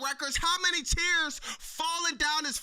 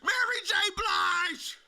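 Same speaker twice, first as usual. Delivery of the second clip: shout-out; 4 semitones higher than usual. Real, not acted. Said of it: "shout-out".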